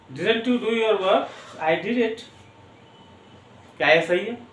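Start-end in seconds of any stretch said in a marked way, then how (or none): 0.1-1.3 very slow, word by word; slow dictation. Shown as a demonstration. Teacher dictating the English: slow. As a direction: say each word apart. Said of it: "किया तो सही".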